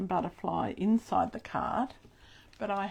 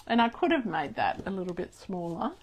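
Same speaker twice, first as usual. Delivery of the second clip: talking through clenched teeth; grinding teeth; 2 semitones lower than usual. Real, not acted. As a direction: speak with teeth grinding together. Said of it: "I was grinding my teeth".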